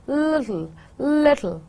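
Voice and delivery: LITTLE with a clearly released t; sounded T. Shown as a demonstration. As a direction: say LITTLE with the t tapped by the tongue. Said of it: "as t as in little".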